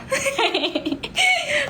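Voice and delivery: a bright high burst of laughter. Real, not acted. Laughing with viewers.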